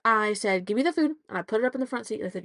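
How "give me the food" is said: snapping mom. Retold or imitated. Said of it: "I'm snapped".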